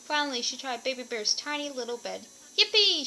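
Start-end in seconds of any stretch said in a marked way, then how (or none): 2.6-3.1 high, loud gleeful cry; excited cry. A narrator's reading. Goldilocks finding Baby Bear's bed, squealing with joy. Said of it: "she cried".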